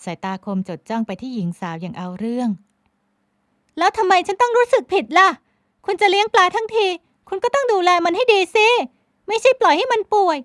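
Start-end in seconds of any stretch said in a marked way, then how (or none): 3.1-10.4 high, loud retort; argumentative young woman. A narrator's reading. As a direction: argue back defiantly. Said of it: "พลอยไหมเถียง".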